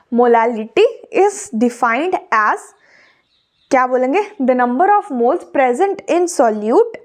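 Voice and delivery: very slow, word by word, for note-taking; slow dictation. Shown as a demonstration. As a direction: spell it out so students can write it down. Dictating the definition slowly.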